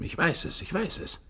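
breathless secretive whisper. Acted. Raving Evans confiding his madness, whispering. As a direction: hiss it like a secret.

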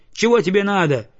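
shout. A narrator's reading. Boy yelling at a stray dog to go away. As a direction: drive the dog off with a yell. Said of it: "крикнул он".

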